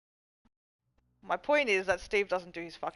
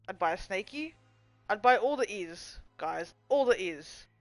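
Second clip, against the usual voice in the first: put-on childish baby talk. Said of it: "I'm a child".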